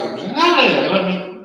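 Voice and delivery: voz que salta arriba y abajo, lenta; tono que sube y baja. Shown as a demonstration. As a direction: haz subir y bajar el tono de golpe. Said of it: "un tono que de repente sube y baja". (demuestra un tono inestable, sube y baja)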